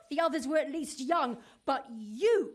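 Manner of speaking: laughing in contempt; scornful laugh. Acted. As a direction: sneer through a laugh.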